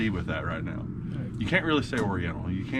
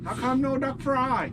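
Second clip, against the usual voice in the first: high, slow mock Asian accent; 13 semitones higher, slower than usual. Duck hunter character complaining, high slow mock accent. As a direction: whine about the ducks in a mock Asian accent. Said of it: "the Asian duck hunter".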